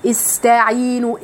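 "استعينوا" with the س held long; slow "استعينوا" with long س; held seen. Shown as a demonstration. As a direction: sustain the س in "استعينوا". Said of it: "ادي السين وقتها".

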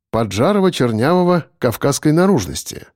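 plain reading voice

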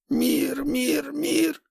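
high, stuck repeating like a broken record; skipping record. Acted. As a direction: keep looping the word, stuck. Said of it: "словно заезженная пластинка".

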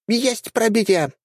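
high, slow triumphant cry; exclaimed. A narrator's reading. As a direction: cheer it high and drawn out. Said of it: "воскликнула она".

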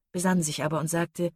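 ordinary delivery

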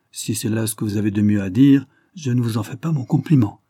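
reproche sec et appuyé, un peu plus fort; durement. Acted. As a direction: une réplique dure, sans chaleur. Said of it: "répliqua monsieur Lester durement". (ton dur et cassant)

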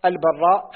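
البراء with a held, doubled ر. Shown as a demonstration. Student reading names to his teacher, البراء with doubled r. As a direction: stress a geminated r in البراء. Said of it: "بتشديد الراء".

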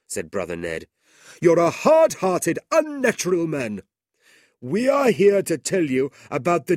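high, loud shaming reproach; reproachful Brother Ned. A narrator's reading. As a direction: shame him for the boy's death. Ned scolding Ralph over death.

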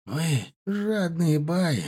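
slow, soft and strained; struggling to speak. Acted. Beaten son accusing the warlords, slow and strained. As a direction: drag each word out through pain. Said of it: "с трудом продолжил Анис".

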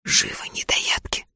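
rasped whisper, barely voiced; urgent hoarse whispered command to hungry kids. A narrator's reading. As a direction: hiss the order hoarsely under your breath. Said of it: "хриплым шёпотом велела".

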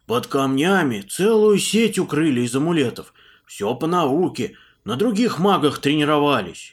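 loud, eager peasant monk. Acted. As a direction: spill it all out loudly. Puzan eagerly reporting.

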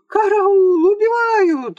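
very high, loud panicked shriek. A narrator's reading. The Tuggs ladies shriek for help at the sabres, panicked squeal. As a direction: scream for help as if being murdered. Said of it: "завизжали таксы".

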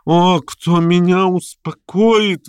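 slow, drawn-out cry to God; exclaiming. Acted. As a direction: plead heavenward, stretching each word. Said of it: "воскликнул он". (медленное восклицание, мольба к Богу)

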